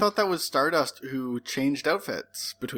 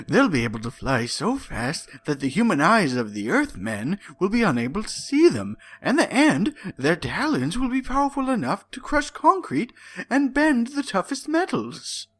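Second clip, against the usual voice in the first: building villain rant; 3 semitones higher than usual. Acted. Villain monologue read aloud.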